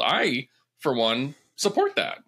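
drowsy, nodding off; half asleep, words dragging; sleepy. Real, not acted. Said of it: "I'm falling asleep".

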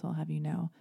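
usual speaking voice

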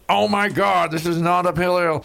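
high, scoffing snob voice; mock a fussy judge scoffing; snobby beer judge. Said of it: "some people are just like".

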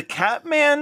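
squeaky Waluigi impression of the Catman. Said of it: "sounds like Waluigi the whole time".

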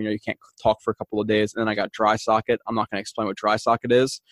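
talking through a swollen mouth; words a little thick from swollen gums. Real, not acted. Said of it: "my mouth is still swollen".

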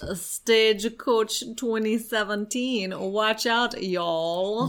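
slow, deliberate Russian-Southern mash-up; Russian doing Southern accent. Shown as a demonstration. Host obliging co-host's request, Russian doing a Southern accent. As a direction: attempt a Southern drawl through a Russian accent. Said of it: "Can you do a Russian doing a Southern accent?".

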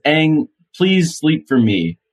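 imitated pleading. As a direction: gently act out coaxing someone to sleep. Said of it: "a real pitch to him".

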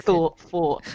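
"Thought, thought" in a New Zealand accent; Kiwi accent. Shown as a demonstration. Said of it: "Kiwi accent".

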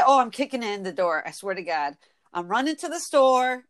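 "kicking" and "running" as kickin', runnin'; dropped G. Shown as a demonstration. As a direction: end "kicking" and "running" on plain N. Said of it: "You drop the G off of words".

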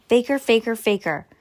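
singsong sibling teasing; taunting. Acted. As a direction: tease like a bratty brother. Brother taunting sister.

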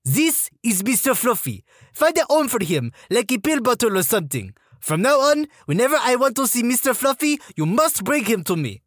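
high French-Canadian female sergeant voice; French-Canadian accent. Retold or imitated. Female sergeant scolds recruit over fluff, French-Canadian accent. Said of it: "female French-Canadian sergeant with this accent".

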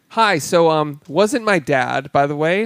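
hesitant, drawn-out sheepish admission; lightly voiced woman breaking awkward news; Salma Hayek. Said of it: "comes up and she goes".

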